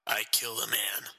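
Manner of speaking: flat calm low man's voice; calm confession. A narrator's reading. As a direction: state it as plain fact. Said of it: "the man said calmly".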